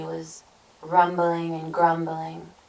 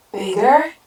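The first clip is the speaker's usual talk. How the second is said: loud, rising greedy questions; hungry troll suddenly tempted; eager cry; 8 semitones higher, 8 dB louder, slower than usual. A narrator's reading. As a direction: cry it out, pitch swooping up. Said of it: "he cried".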